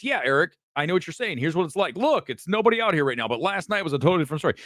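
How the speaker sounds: imitating a live field reporter; field reporter reply. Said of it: "he goes".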